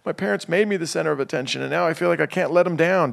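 put-on hunch up and fret like a kid who can't let parents down; anxious kid voice. Host mimicking a child confiding to a counselor, fretful and anxious. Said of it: "Not in that voice?".

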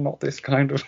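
lightly voiced pedantic nerd, high; a hint of a smug correcting geek; nerdy know-it-all voice. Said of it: "the nerdy voice in my head going".

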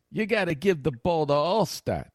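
a touch of Ira pestering the coach; Gruden doing Ira. Retold or imitated. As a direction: drag it out as a pushy reporter impression. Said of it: "That's how he's doing Ira".

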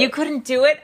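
high, rising echo question; surprised disbelief. Real, not acted. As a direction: repeat it back in real disbelief. Host reacts to guest's admission.

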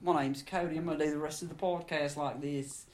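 playful put-on British accent; light mock British voice. Host introducing himself to co-host in British accent. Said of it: "My British accent's not bad".

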